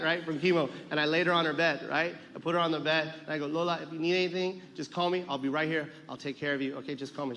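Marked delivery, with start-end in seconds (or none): 3.5-7.3 tender reassurance. Retold or imitated. Grandson puts sick grandmother to bed, soft and reassuring. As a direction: reassure softly, getting quieter.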